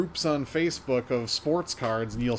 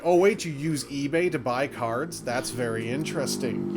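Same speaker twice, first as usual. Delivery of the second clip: lightly sarcastic feigned interest; mock sarcasm. Quoting ad commenters who feign interest in eBay, sarcastic. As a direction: act out a commenter pretending to be intrigued. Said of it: "It's tons of sarcasm".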